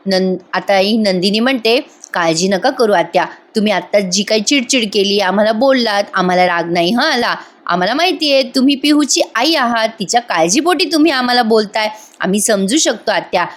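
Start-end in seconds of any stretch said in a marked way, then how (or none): 2.1-13.5 gently calm an upset aunt; loving and gentle. Retold or imitated. Nandini reassuring her worried aunt, mildly tender. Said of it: "एवढं प्रेमाने बोलते".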